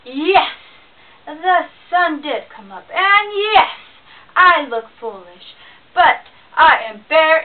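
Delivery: loud, menacing bear voice; angry bear threatening the squirrel it pinned; growling bear. Acted. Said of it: "growling at him".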